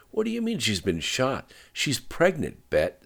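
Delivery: rising panic at the news; alarmed. A narrator's reading. Friend learns pregnant woman shot.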